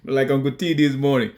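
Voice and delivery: ordinary delivery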